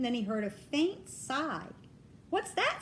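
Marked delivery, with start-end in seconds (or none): 2.3-2.8 sharp, higher irritated snap; a king snapping down at a noise; snapped. A narrator's reading. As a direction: bite off the question, annoyed. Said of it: "snapped the king".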